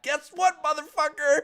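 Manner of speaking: high, loud cheeky taunt; defiant taunt. Pretend. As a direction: throw it back at the customer. Defiant retort to customers.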